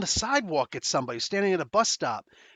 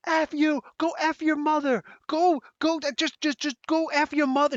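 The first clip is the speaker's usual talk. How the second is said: imitated screaming; 11 semitones higher than usual. Stranger screaming insults at the narrator, high mock ranting. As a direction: rave it over and over at him. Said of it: "screaming this stuff over and over".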